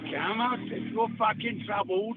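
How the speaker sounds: tough Cockney through the teeth; Cockney accent. Shown as a demonstration. Cockney hard man calling someone out, Cockney accent. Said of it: "talks right through his fucking teeth like that".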